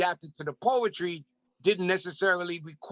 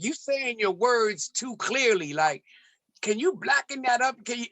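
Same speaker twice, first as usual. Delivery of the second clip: pitched higher, a lightly mocking studio producer voice; 7 semitones higher than usual. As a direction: poke fun at the pushy white producer, voice pitched up. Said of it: "one of the music producers was like".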